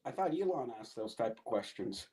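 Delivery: too soft, mumbled aside; quiet mumble. Real, not acted. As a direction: say it low, half to yourself. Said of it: "What's that?".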